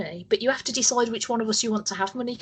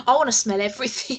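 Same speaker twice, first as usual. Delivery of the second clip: laughing whisper; 2 semitones higher, faster than usual. Real, not acted. Laughing whisper after ad joke.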